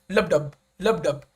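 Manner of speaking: "Lub dub" with the stress on dub; heartbeat rhythm. Shown as a demonstration. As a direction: beat out "lub dub" like a pulse. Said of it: "the rhythm of the iambic pentameter".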